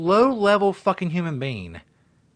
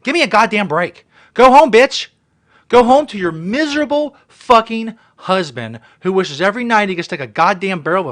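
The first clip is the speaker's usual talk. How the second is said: furious yell; 2 semitones higher, 7 dB louder than usual. Real, not acted. Vlogger yells at the Walmart woman to go home. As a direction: yell her out the door.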